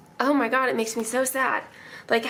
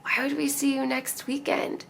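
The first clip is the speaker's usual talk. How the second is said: hushed, baffled question; whispered disbelief; 2 semitones higher, 6 dB quieter than usual. Retold or imitated. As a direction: whisper it in stunned confusion. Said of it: "And I was like".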